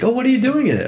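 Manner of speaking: mock curious Lisa. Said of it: "And she's like".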